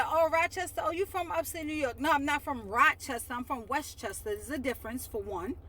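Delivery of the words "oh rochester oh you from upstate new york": a hint of a clueless outsider; lightly mock the people who get it wrong; mimicking outsiders. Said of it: "they would say".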